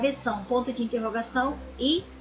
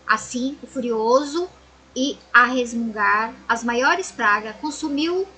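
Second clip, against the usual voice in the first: storybook reading voice for the class; story narration; 3 dB louder than usual. A narrator's reading. Teacher reading a fable to her pupils, storybook voice. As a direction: read the fable aloud to children.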